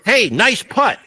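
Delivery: golf-course compliment. Retold or imitated. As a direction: toss it off like a golfer on the green. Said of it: "And the Air Force was".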